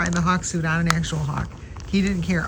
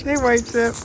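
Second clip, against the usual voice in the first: higher greeting to a pet; pitched-up pet-name call; calling to a bird; 5 semitones higher than usual. Real, not acted.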